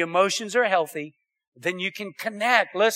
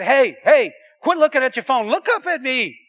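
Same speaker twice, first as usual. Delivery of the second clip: raised, high-pitched cranky scolding; retold irritable outburst, climbing in pitch; 5 semitones higher, 5 dB louder than usual. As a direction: snap at someone who isn't paying attention. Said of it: "and so I was cranky".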